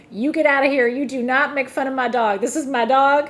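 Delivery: mock-indignant Southern lady telling someone off; imitated yelling. Older lady yelling at the videographer, loud imitated scolding. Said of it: "she starts yelling at the videographer".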